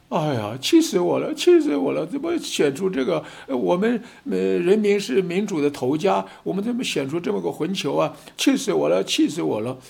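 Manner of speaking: hammed-up exasperated citizen venting; imitating furious voters. Voters furious at electing a fool, mock fury. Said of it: "老百姓都在哭".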